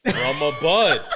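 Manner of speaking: laughing it out slowly; slow amused laugh on the words. Real, not acted. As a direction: repeat it through a laugh.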